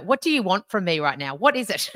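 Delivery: hammed-up exasperated demand; impatient snap. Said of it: "not in a".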